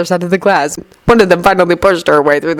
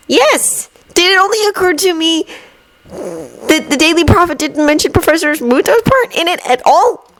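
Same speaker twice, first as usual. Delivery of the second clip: lightly voiced Neville; 11 semitones higher than usual. A narrator's reading.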